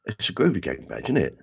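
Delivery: put-on light South London accent, trained polish gone. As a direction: let the Bermondsey accent slip back in. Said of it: "my accent had completely slipped".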